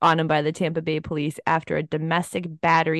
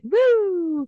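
high excited whoop; 12 semitones higher than usual. Real, not acted.

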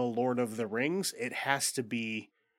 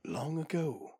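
epic movie prologue narration. Retold or imitated. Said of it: "they go".

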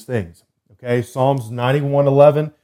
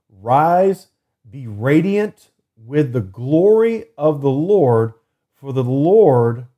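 preached scripture reading; slower than usual. Acted. Podcast host proclaiming Isaiah to listeners, slow and fervent. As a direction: proclaim each phrase, stretching it out.

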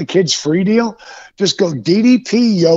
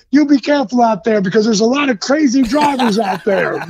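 higher-pitched chummy caution; lightly voiced starstruck officer giving advice; imitated friendly cop; 5 semitones higher than usual. Cop warning wrestler about crazy drivers, lightly imitated concern.

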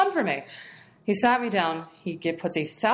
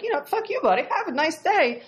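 mock dismissive sendoff; 9 semitones higher than usual. Dismissive retort to departed client.

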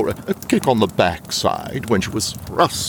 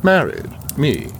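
taken aback; 5 semitones higher than usual. Acted. Taken aback by personal question.

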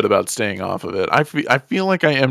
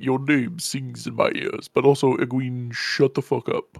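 slow, lightly voiced gentle Ogier giant; a hint of Loial's slow, measured rumble; 5 dB quieter, slower than usual. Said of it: "Your Loial voice".

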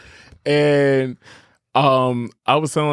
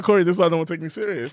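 laughing exasperation; 3 semitones higher, faster than usual. Retold or imitated. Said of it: "And I said".

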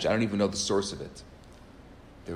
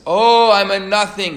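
high, loud heartfelt wail; young man mimicking the students' lament; inspired cry; 8 semitones higher, 10 dB louder than usual. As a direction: join in, crying it out. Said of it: "he says".

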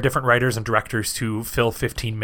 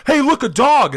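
high, loud mock excitement; excited cartoon call; 12 semitones higher, 6 dB louder than usual. Acts cartoon character pointing out dog.

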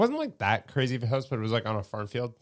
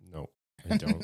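mock flamboyant voice; 3 semitones lower, 3 dB quieter than usual. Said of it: "You sound gay".

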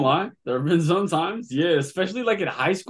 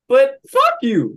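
shout; 10 semitones higher, 7 dB louder than usual. Acted. Mock outburst at gatekeepers.

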